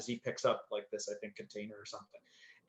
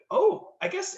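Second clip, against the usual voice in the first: surprised; 5 dB louder, slower than usual. Retold or imitated. Startled reading the call sheet.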